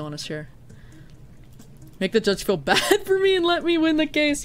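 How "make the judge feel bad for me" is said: high-pitched burst of laughter mid-sentence; laughing. Real, not acted. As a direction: crack up while reading it out. Laughs while reading chat suggestion.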